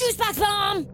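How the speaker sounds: battle cry. Acted. Repeats attack call.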